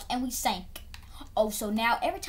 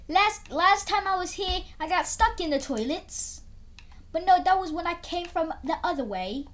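mock British accent, a bit higher; 5 semitones higher than usual. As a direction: put on a jokey British accent. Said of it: "Don't ask why I have a British accent".

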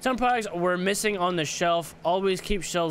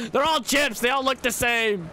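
higher, baffled exclamation; incredulous; 6 semitones higher than usual. Real, not acted. Gamer baffled that every bag in the aisle is chips.

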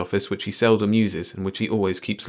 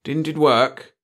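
careful sympathy; 7 semitones higher, 4 dB louder, slower than usual. A narrator's reading. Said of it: "asked with careful sympathy in his voice".

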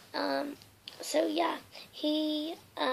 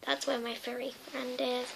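whisper; 8 dB quieter than usual. Real, not acted.

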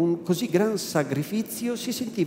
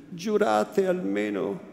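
serious, anxious plea; 3 semitones higher, slower than usual. Acted. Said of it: "con volto serio e ansioso".

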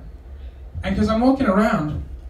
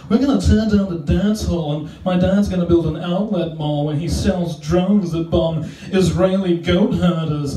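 put-on rich kid. Rich kid voiced in bit.

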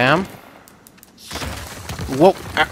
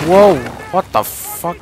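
startled; 4 dB louder than usual. Real, not acted. Startled by sudden attack.

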